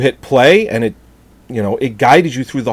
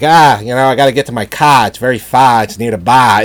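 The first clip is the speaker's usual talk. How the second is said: put-on Boston accent. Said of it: "this Boston accent".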